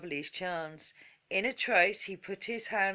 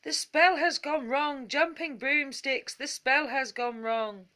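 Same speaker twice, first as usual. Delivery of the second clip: alarmed shout, higher and louder; panicked wizard shouting; 6 semitones higher, 4 dB louder than usual. A narrator's reading. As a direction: bellow that the spell has failed.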